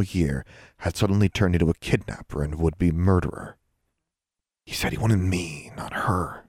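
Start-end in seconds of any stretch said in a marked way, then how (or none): 4.7-6.4 soft unvoiced whisper; girl murmuring to her raven, whispered; murmured. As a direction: breathe it to yourself. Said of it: "she murmured".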